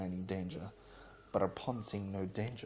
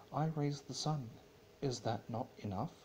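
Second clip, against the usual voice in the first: Celestia's bitter retort; 5 semitones higher than usual. Acted. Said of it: "replied Celestia, narrowing her eyes".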